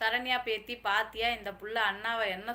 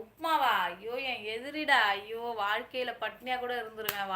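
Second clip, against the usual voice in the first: mock horror; 2 semitones higher, 5 dB louder than usual. Hearing someone ate upma, loud mock horror. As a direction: exclaim as if faced with an enemy.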